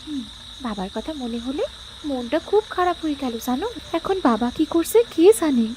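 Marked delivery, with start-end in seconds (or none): 0.1-2.4 missing father. Acted. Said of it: "মন খারাপ নাকি?".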